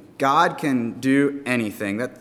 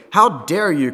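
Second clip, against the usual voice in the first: loud, outraged royal shout; angry shout; 4 semitones higher, 6 dB louder than usual. A narrator's reading. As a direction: scold the wave for daring. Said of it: "Canute shouted".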